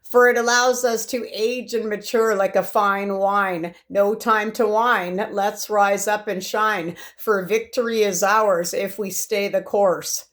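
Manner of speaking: slow, declaimed poem reading; poem recital. Acted. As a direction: recite the rousing verse slowly and deliberately. Reads own poem aloud.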